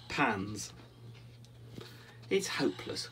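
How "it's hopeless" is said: high, forlorn little duck voice; raised pitch, mildly despairing; glum. A narrator's reading. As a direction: lament it as a dejected duck. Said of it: "waddling glumly".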